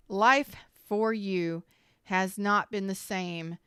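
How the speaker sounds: slow and heavy, fighting tears; emotional, slow. Real, not acted. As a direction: push each word out against the emotion. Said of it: "I'm gonna get emotional".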